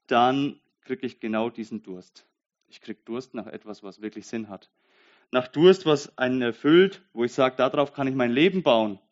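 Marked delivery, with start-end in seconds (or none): 5.3-9.0 fervent cry. Real, not acted. Preacher to listeners about his thirst, loud fervent cry. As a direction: call it out like a longing shout.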